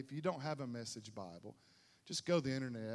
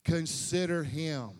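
voicing the Lord; 7 dB louder than usual. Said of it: "He said".

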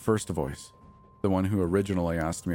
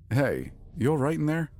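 calling out; 8 semitones higher than usual. A narrator's reading. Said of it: "a voice outside called out".

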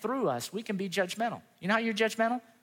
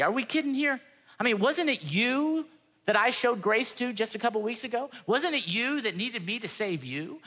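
incredulous, higher-pitched challenge; calling out; 4 semitones higher than usual. Retold or imitated. God calling out angry Jonah over grace, incredulous challenge. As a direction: imitate a stern rebuke in rising, disbelieving questions. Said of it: "God calls him out and he said".

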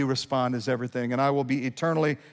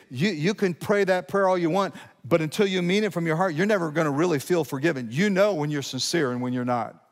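normal talking voice

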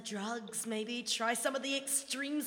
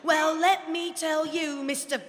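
louder, huffy and proud; indignant boast; 6 dB louder than usual. Acted. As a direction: put him in his place.

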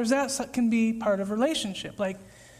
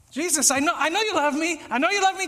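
anxious pleading; 5 semitones higher, 4 dB louder, faster than usual. Retold or imitated. Voicing the anxious believer.

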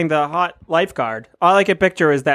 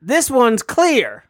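slow proclamation; 6 semitones higher, much slower than usual. Acted. Proclaims the true idol.

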